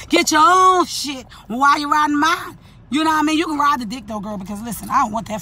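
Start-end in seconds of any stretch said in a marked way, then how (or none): 0.1-2.6 a rapper's line. Retold or imitated. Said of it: "like" a rapper would say.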